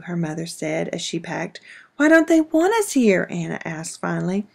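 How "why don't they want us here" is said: put-on child's voice. Child asks mother.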